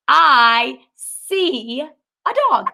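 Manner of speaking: very slow, each word apart; slow example sentence. Shown as a demonstration. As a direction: read it out word by word. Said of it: "So I could be like".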